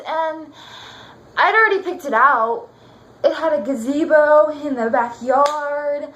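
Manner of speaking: wistful, excited recollection with long pauses; dramatic monologue. Pretend. Jilted ex rehearsing a monologue about the ring Jason gave her, wistful recollection. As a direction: act out a fond memory, lingering between phrases.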